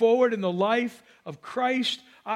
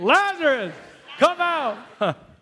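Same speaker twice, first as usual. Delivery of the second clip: loud shout, calling out with full force; 4 semitones higher, 4 dB louder than usual. Leading the listeners in shouting a bible line together: shouting. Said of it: "let's say it again".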